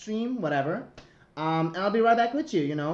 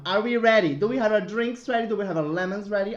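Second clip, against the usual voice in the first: excited hype; 3 semitones higher, 5 dB louder than usual. Real, not acted. Host hypes the crowd.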